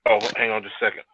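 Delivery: faint, choppy call audio; words dropping out on a bad line; clipped phone line. Real, not acted. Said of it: "you're breaking up again".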